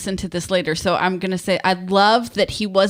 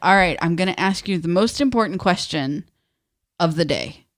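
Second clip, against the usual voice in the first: mock dead-serious, grave, building tone. Retelling how the other speaker asked a question: imitating a serious tone. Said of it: "you're, like, all serious and you're like".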